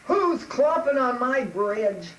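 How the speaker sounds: loud, slow troll roar; drawn-out, booming challenge; menacing troll. Acted. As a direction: bellow it like an angry troll. Troll challenges big goat.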